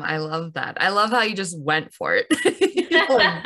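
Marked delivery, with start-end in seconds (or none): 2.3-2.8 a bright high burst of laughter. Real, not acted. Host reacting to the guest's bold move, high laugh.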